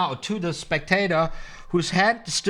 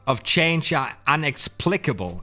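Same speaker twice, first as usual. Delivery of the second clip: slow, careful patter practice; slow rehearsed magician's line; slow practice read; 4 semitones lower than usual. Shown as a demonstration. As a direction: work through the line slowly like a rehearsal. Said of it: "I have to practice this a little bit".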